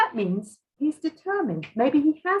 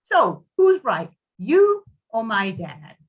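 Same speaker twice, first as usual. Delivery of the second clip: slow, louder, pointed question; a slow, louder demand from a stubborn client; defiant challenge; 2 semitones higher, 5 dB louder, slower than usual. Acted. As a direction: lean in and dare him to answer.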